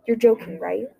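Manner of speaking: sharp disbelieving outburst; angry. Acted. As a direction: snap back in disbelief. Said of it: "Zhang replied angrily".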